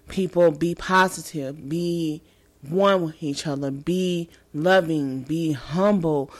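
sincere. Real, not acted. Slow sincere advice.

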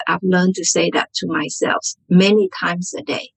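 normal talking voice

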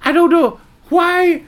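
slow, low, posh drawl; entitled private school drawl. Acted. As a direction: drawl it like a spoiled rich kid. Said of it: "started talking like a little rich kid".

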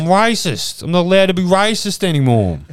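laughing through a mock confession; loud laughing mock admission.

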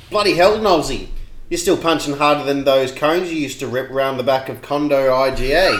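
broad Aussie bogan reading; bogan accent. Acted. Reading a favourite photo comment in bogan style. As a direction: read it like a bogan ribbing an old mate. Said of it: "read it out to you in true Bogan style".

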